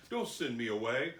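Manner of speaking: understated plea to stay; mild begging. Acted. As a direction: ask with a touch of begging. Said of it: "he begged him earnestly".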